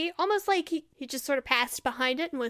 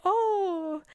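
a little nervous; 2 semitones higher than usual. Acted. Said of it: "Faust looks a little nervous".

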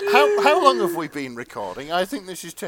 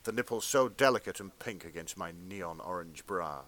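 earnest, measured erotica read; fan fiction narration; 8 semitones lower, 9 dB quieter than usual.

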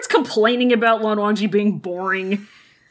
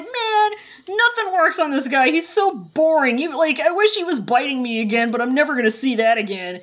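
whiny complaint; 3 semitones higher than usual. Retold or imitated. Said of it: "Wei Wuxian is like".

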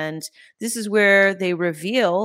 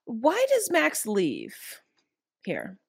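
whispering. Real, not acted. Whispered question to the group.

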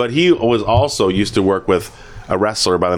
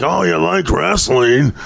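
imitating Stan; 6 semitones higher, slower than usual. Quoting fellow comedian Stan.

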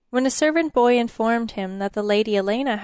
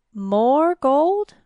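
surprised; 5 semitones higher, 5 dB louder than usual. A narrator's reading. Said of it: "Elena frowned".

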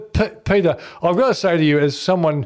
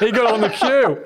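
laughing; 8 semitones higher than usual. Real, not acted. Laughing through a funny story.

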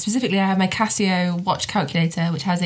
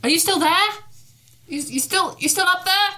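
shouting up; 11 semitones higher than usual. Acted. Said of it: "I might shout up to the top of the tower".

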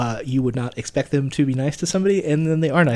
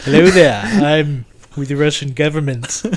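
mock Russian accent, slow on the second line; slower than usual. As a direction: put on a hammy Russian accent. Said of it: "What is this accent even?".

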